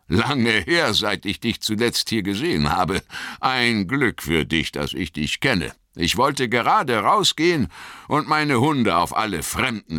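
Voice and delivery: a farmer breaking into a grin; pleased farmer. Acted. Farmer complains of strangers.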